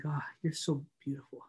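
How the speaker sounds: fawning over a beloved car; a teen talking to his car, adoring then gushing. Retold or imitated. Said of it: "And I would just think".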